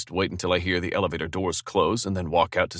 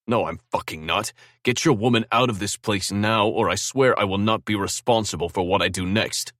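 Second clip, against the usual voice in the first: angry; 3 semitones higher, 4 dB louder than usual. Acted. Angry phone call.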